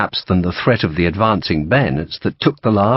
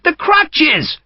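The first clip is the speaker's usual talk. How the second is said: protesting. A narrator's reading. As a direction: wail for the lost sabre. The Brigadier protests.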